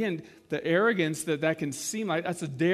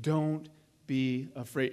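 gentle, slow reassurance; 4 semitones lower, slower than usual. Retold or imitated. Preacher repeating Elijah's words to the widow, slow and gentle. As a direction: let each word settle like a comfort. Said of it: "That's a Jesus statement".

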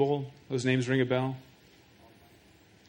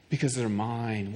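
tender answer; 4 semitones lower, 6 dB quieter than usual. Retold or imitated. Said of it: "what they almost always say".

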